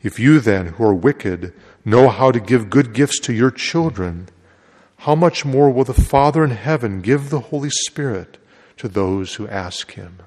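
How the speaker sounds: solemn liturgical proclamation; gospel reading. Acted. Priest proclaims the gospel at Mass.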